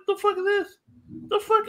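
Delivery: retelling the frozen-wings order, squeaky mock outrage; outraged disbelief. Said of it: "I'm like".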